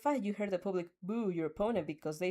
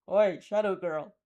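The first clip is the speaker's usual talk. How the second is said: calling out; 7 dB louder, slower than usual. Acted. Monoma calls from behind wall.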